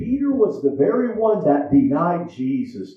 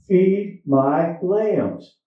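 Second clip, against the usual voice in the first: slow command; much slower than usual. Acted.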